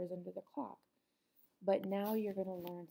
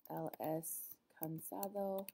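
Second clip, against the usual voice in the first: slow model sentence; slower than usual. Shown as a demonstration. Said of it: "you would say".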